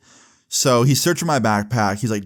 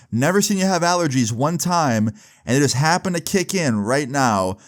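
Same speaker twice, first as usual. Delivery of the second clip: lightly imitated sarcastic teacher; mock a student's excuse, piling up the points; sarcastic disbelief; 2 semitones higher than usual. Teacher takes apart a student's allergy excuse, acted sarcastic disbelief.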